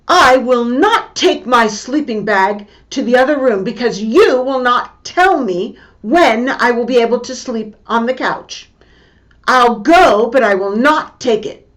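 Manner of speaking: put-on stubborn kid shouting back at mom; defiant refusal. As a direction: dig in your heels and refuse, loud. Boy refuses mother's order.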